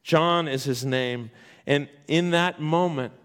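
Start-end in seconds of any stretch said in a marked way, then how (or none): 0.0-1.3 John stressed first, slow and low; weight on John, deliberate and lowered. Shown as a demonstration. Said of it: "the emphasis".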